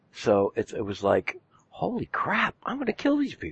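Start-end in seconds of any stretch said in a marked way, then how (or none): 1.7-3.5 put-on very high, delighted, gleeful, swooping sing-song. A player recalls a simulation round where nobody got to act, retelling with glee. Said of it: "He says his it with glee in his voice".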